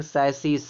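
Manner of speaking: सैसिस opening with an "s" sound. Shown as a demonstration. Teacher showing how CH is read, सैसिस starting with "s". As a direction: say सैसिस as "sai-sis". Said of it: "सा निकला सा".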